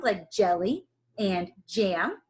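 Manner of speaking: "jelly" and "jam" with the J stressed; stress the J sounds. Shown as a demonstration. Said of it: "anytime you hear that J".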